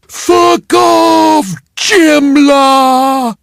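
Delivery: high, loud furious yell; snarled curse. Retold or imitated. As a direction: spit it at him in a rage. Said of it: "had snarled at me".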